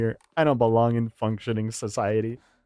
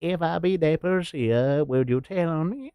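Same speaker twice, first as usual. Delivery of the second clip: lightly put-on Tom Hanks quote; a hint of mock pleading; Tom Hanks impression; 5 semitones higher than usual. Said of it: "Tom Hanks's voice".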